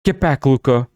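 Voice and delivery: sharp shouted order; screamed command. A narrator's reading. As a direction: yell to drive the creature back. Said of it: "Ivana screamed".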